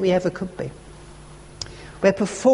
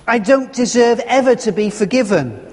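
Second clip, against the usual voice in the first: rising voice; 3 semitones higher, 4 dB louder than usual. Retold or imitated. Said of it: "His voice was rising".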